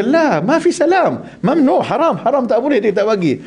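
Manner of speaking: hammed-up stern Arab forbidding a handshake; imitating an Arab telling off a pilgrim; Arab man refusing.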